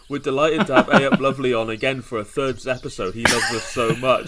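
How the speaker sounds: lightly put-on Yorkshire accent; bad Yorkshire accent. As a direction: mimic a host in a clumsy Yorkshire accent. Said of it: "do a bad Yorkshire accent".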